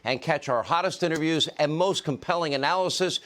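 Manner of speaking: slightly lifted announcer plug; emphatic host's sign-off plug; promo read. Acted. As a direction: sell the channel like a host's promo. Recorded channel promo read.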